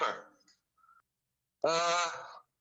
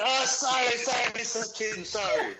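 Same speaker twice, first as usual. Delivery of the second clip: laughing mock apology; 4 semitones higher than usual. Retelling to friends how he fooled the heckler, laughing. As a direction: laugh through a pretend sorry.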